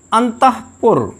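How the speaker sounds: अंतःपुर with only a breath before पुर; a short puff of air inside अंतःपुर, no ha syllable; correct visarga. Shown as a demonstration. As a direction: say अंतःपुर as an-tah-pur. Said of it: "हाँ नहीं".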